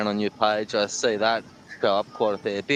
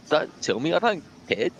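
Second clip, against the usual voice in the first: laughing; 8 semitones higher, 11 dB louder than usual. Retold or imitated. Retold plea, laughing.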